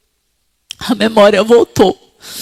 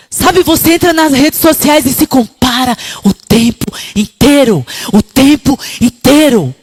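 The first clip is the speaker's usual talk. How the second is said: higher, louder impassioned preaching; fiery preaching; 6 semitones higher, 5 dB louder than usual. Acted. Preacher exhorting the women in the congregation, fiery. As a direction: preach to the women with full force.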